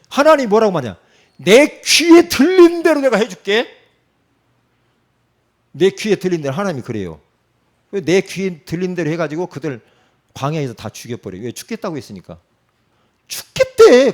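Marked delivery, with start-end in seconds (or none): 1.4-3.8 high, loud and slow divine pronouncement; booming voice of God. Acted. Preacher voicing God's verdict to the people, loud and slow. 13.3-14.1 mock exclamation. Mocking people's complaint.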